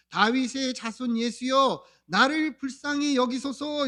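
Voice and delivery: slow, drawn-out plea for mercy; imitated crying out. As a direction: call out like a blind beggar, stretching the words. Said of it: "뭐라고 소리를 지릅니까?". (길게 외치는 간청을 흉내 내어)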